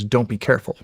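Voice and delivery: calm, even-voiced advice. Wife calmly telling soldier husband before deployment, calm. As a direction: say it plainly and calmly, no drama. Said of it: "just very calmly".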